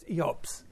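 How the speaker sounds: "hab's" carries the accent, "Ich" quick and unstressed; stress on HAB'S. Shown as a demonstration. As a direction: throw the weight onto "hab's". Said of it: "Wenn man die Betonung auf das".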